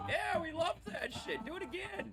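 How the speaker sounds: excited shout. Real, not acted. Celebrating crash.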